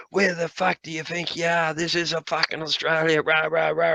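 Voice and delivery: hammed-up outrage at the cheeky mainlander; mock angry mechanic. Mechanic ranting at the mainland driver, mock angry.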